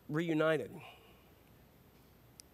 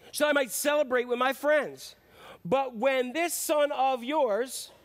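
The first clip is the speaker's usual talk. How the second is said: resentful complaint; 4 semitones higher, 4 dB louder than usual. Acted. Son angrily complains to father.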